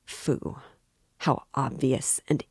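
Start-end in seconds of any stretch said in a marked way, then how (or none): 0.1-0.6 repelled breathy phoo. A narrator's reading. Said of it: "thought with repulsion".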